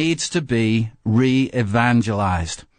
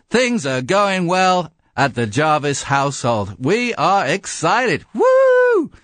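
new anchor Bill Jarvis bursting with excitement on air; thrilled new newsman; 6 semitones higher than usual. Pretend. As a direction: gush like a giddy newsreader on day one. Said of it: "he's thrilled with his job".

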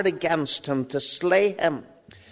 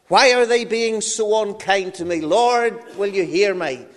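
higher, louder desperate prayer; crying to God; 5 semitones higher, 5 dB louder than usual. Acted. Joseph in the pit begs God for help, anguished cry. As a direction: plead up to heaven in anguish. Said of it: "he begins to cry to God".

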